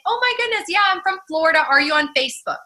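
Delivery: high bubbly friendly gush; chirpy excited small talk. Retold or imitated. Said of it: "I say".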